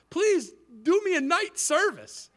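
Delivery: high, comic begging; pleading. Retold or imitated. Preacher begging a pastor for a night service, pleading. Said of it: "I pleaded".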